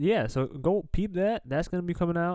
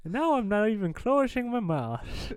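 put-on Irish accent; 4 semitones higher than usual. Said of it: "where we talk in accents".

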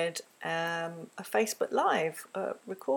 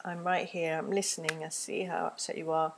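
gentle empathy; 4 dB quieter than usual. Shown as a demonstration. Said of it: "be there listening".

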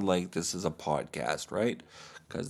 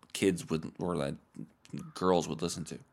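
ordinary delivery

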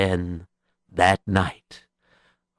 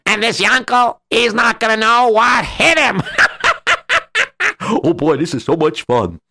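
gloating laugh; 10 semitones higher, faster than usual. Acted.

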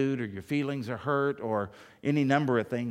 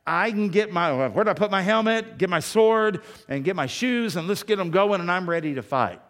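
louder and higher, building to a rally; rousing battle cry; 5 semitones higher, 6 dB louder than usual. Acted. Preacher rallying the congregation to battle, rousing and loud. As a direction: fire them up to grab their armor.

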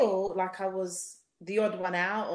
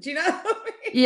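laughing; 7 semitones higher, 7 dB louder, faster than usual. Real, not acted. Laughing at her own accent.

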